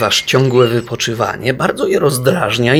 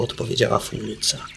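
ordinary delivery, nothing marked

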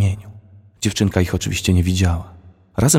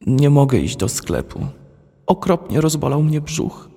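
high, slow, feeble pleading; weak sickly voice; 7 semitones higher than usual. A narrator's reading. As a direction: pretend a stomach ache. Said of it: "powiedziała słabszym już głosem". (słabym, wyższym głosem, wolno, udając ból brzucha)

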